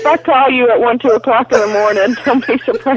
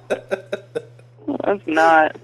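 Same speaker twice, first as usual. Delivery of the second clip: slow insistence; 5 semitones lower, 6 dB quieter, much slower than usual. Real, not acted. Insisting denial.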